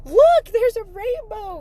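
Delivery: high, loud call to a stranger. Retold or imitated. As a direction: call up to him excitedly. Calling out to homeless man.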